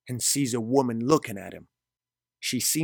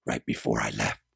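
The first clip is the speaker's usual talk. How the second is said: very low-pitched male character; insistent Gabriel; 13 semitones lower than usual. A narrator's reading. Gabriel recalls their parting to Mari, deep insistent voice. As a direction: remind her in a deep voice.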